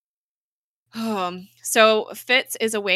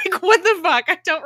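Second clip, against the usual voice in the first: incredulous; 9 semitones higher, 6 dB louder than usual. Real, not acted. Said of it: "Why does Ada have this power?".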